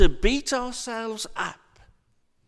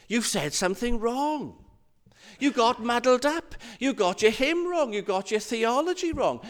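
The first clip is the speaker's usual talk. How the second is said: lightly acted nagging, slightly raised; fault-finding inner voice; 4 semitones higher than usual. Little voice criticizing a prayer at the meeting, mildly nagging. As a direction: tick off each mistake like a petty critic. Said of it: "and the little voice says".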